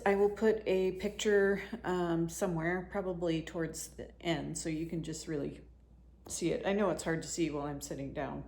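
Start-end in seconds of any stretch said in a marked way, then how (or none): 6.3-8.4 with hiccups. Real, not acted. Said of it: "Sorry, I have the hiccups".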